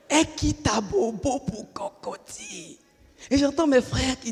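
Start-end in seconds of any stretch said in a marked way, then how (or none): 0.1-2.8 higher, slow teasing chant; mock excited brothers. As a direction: tease her like proud brothers. Frères imités, ton moqueur. (frères taquins imités, voix aiguë et lente)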